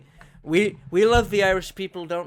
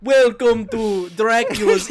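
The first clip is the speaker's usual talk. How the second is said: loud, slow, high mock vampire voice; mock him with a hammy vampire greeting; Dracula; 6 semitones higher, 9 dB louder, slower than usual. Host ribbing co-host's failed accent, hammed-up vampire impression. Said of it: "You did, like, fucking Dracula".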